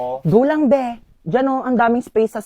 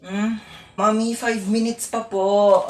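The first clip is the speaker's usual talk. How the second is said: slow, softer half-asleep plea; sleepy; 6 dB quieter, much slower than usual. Acted. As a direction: beg drowsily to stay in bed. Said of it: "Inaantok lang talaga ako". (antok na pakiusap)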